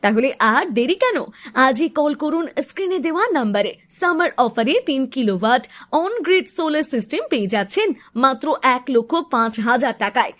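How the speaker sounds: upbeat pushy advert read; hard sell ad. Acted. Solar system radio-style ad read. (জোরালো বিজ্ঞাপনী পাঠ)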